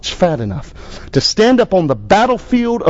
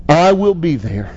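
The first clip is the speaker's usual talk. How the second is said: pastor's closing prayer. Acted. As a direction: lead the congregation in prayer.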